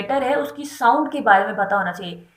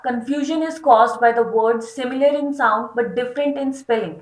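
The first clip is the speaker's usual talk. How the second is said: slow, deliberate reading of a definition; slow dictation read; much slower than usual. Acted. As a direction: dictate it slowly for notes. Reads text slowly. (धीमे-धीमे परिभाषा पढ़ना)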